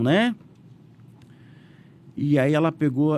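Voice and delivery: ordinary delivery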